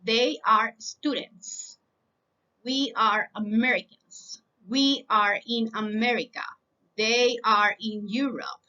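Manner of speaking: very slow, evenly spaced English sentences; slow repeat-after-me. Shown as a demonstration. Teacher leading students in repetition, slow deliberate drill. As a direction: lay every word out slowly for learners to echo. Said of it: "Repita después de mí".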